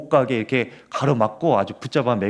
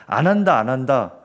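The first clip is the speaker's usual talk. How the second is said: mock refusal; 4 dB louder than usual. Moses refusing God, raised insistent voice. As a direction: push back like a reluctant Moses.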